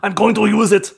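loud, high mock Austrian declaration; Arnold, Austrian accent. Player hams up an impression for friends, shouted Austrian accent. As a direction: announce it in an over-the-top Austrian accent.

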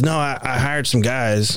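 lightly voiced impression of a local man; mildly hammed-up quote of a stranger; put-on stranger's voice. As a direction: retell it in a slightly put-on voice. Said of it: "I don't know why I'm doing this voice".

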